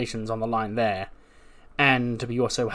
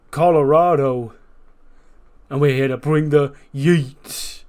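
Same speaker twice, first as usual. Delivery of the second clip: loud, hyped-up swagger promo, pitched up; hyped tag champ; 2 semitones higher, 6 dB louder than usual. Retold or imitated. Uso brother hyping up the arena, loud swagger. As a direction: strut and hype the crowd. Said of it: "He goes".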